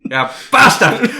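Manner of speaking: laughing Scottish bastard; slow hammed-up Scottish yell; Scottish accent. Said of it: "the only thing I can say properly".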